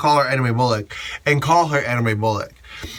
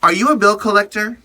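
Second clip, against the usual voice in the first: higher, louder challenge; raised-voice snap at a pushy fan; sharp retold confrontation; 7 semitones higher, 4 dB louder than usual. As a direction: call him out loud and sharp. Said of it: "And I'm like".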